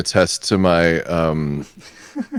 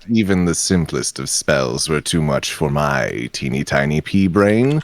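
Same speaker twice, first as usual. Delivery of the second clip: Vincent Price impression. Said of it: "doing an impression of what you just did".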